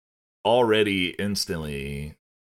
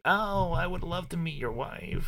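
high, sing-song mock politeness; sugary put-on pleasantry, pitched way up; fake nice; 12 semitones higher, 4 dB quieter than usual. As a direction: imitate someone laying on phony niceness. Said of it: "act all nice with him".

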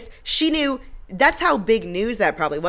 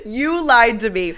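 mock yell; 4 semitones higher, 6 dB louder, slower than usual. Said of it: "out the gate says".

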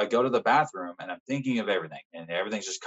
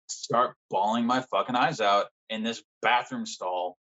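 ordinary delivery

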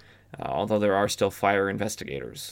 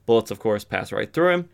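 ordinary delivery

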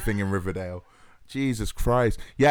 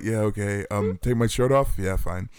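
mock lazy compliance; bored indifference; 4 semitones lower than usual. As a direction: sound like you couldn't care less. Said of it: "he's just like".

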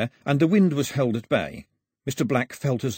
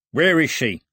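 raised, loud, wary question; suspicious; 5 semitones higher, 5 dB louder than usual. A narrator's reading. Voice behind the door questioning a caller, suspicious. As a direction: challenge them with suspicion. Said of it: "said a voice full of suspicion".

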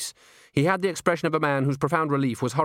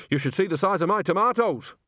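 stoutly; 9 semitones higher than usual. A narrator's reading. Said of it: "said Nanny Ogg stoutly".

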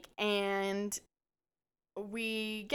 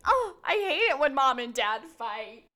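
put-on higher, whiny child voice; mock little kid; 5 semitones higher, 4 dB louder than usual. Friend joking about couple's fights, mock small child. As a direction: play the kid hiding from parents' fight.

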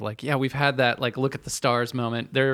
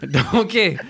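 higher, louder cartoon ogre catchphrase; Shrek; 7 semitones higher, 6 dB louder than usual. Joking that every accent comes out ogre, Shrek impression. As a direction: echo the ogre's call with a laugh. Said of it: "I sound like Shrek".

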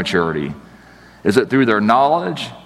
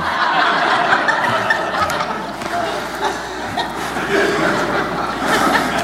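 long airy wheezing laugh, fading; drawn-out wheezy laugh; long silent laugh. Real, not acted. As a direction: laugh silently until it runs out. Laughs at the punchline.

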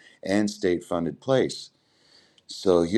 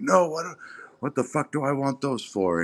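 retold attitude; 7 semitones higher than usual. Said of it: "he started getting, like, this attitude".

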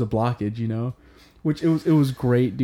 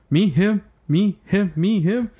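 higher, quick alternating mock confusion; confused back-and-forth; 7 semitones higher, slower than usual. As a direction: lightly imitate someone pointing to and fro. Acting out confused pointing meme.

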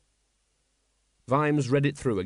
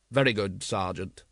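cold; 4 semitones lower than usual. Acted. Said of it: "said Vimes coldly".

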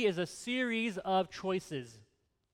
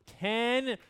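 loud, raised, playful self-congratulation; triumphant boast; 3 semitones higher, 9 dB louder, slower than usual. Real, not acted. Preacher telling congregation of ten years together, triumphant. Celebrates anniversary, asks for applause.

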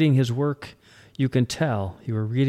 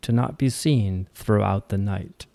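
measured verse reading, evenly paced lines; poem recitation. Acted. Host reads the poem Rest to listeners, poem recitation. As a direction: recite it gently line by line.

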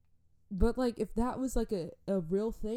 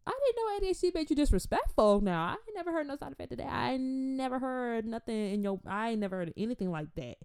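mock outrage; 5 semitones higher than usual. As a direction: protest in hammed-up high-pitched disbelief. Mock outrage at child's disrespect.

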